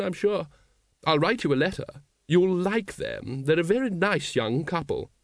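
high-pitched, well-meaning lady; high, earnest lady's voice; Lady Ramkin, helpful. A narrator's reading. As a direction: offer help in a high lady's voice. Voices Lady Ramkin offering help.

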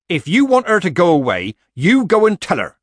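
loud, high, angry retort; snapped. A narrator's reading. Nanny to the committee woman who is pestering her, snapping. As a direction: snap back at her, voice jumping up. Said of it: "snapped Nanny".

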